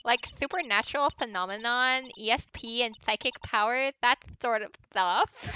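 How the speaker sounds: put-on lightly lisped valley girl; airheaded girl with a slight lisp; Inny Mini Miny Mo. Girl explaining her interest in psychic stuff, lisping airhead voice. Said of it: "that's how I think she would talk".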